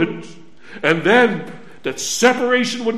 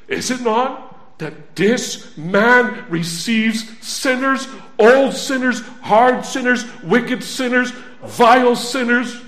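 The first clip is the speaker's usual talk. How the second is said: louder with each sinner named; building sermon cadence; 3 semitones higher, 3 dB louder than usual. Acted. Preacher piling sinners on for the congregation, building. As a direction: hammer each sinner word home.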